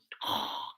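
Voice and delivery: N=Darth Vader/character; Darth Vader breath. Shown as a demonstration. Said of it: "I'm doing my Darth Vader impression".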